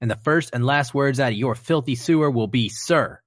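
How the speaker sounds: a hint of a barking drill sergeant. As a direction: play the drill instructor, commanding. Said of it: "Full Metal Jacket recruit".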